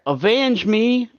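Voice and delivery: slow, high dying battle cry; overacted death scene. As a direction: belt it out like a hammy last stand. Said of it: "and I'm gonna be like".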